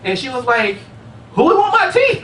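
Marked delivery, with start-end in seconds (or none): 1.3-2.2 put-on high, puzzled kid voice; high little girl, baffled; little niece voice. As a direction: ask it like a baffled four-year-old.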